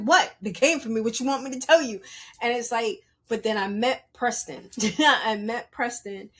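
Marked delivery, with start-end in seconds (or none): 0.0-2.0 louder, quick defensive comeback; défensive, mimée. Retold or imitated. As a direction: retort loudly, as if unfairly accused. Acts out defensive reply to boss.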